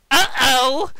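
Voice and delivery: high startled uh-oh; alarmed uh-oh. Acted. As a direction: caught off guard, yelp it. Sonic sees robots coming.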